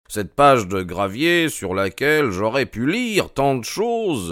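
lightly voiced detective lamenting a lost chance; a touch of animated reproach; impatient, keen detective. Holmes to Doctor Mortimer about not being called, mildly reproachful.

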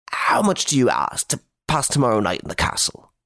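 a rich man trying to buy help; lightly voiced anxious nobleman; pleading Baron.

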